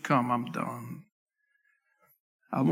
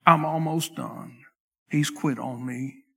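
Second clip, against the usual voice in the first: weary despair; 4 semitones lower than usual. Retold or imitated. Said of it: "you may be saying".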